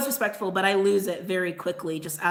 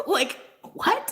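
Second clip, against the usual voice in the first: incredulous laugh; 11 semitones higher than usual. Real, not acted. Incredulous at twenty dollars.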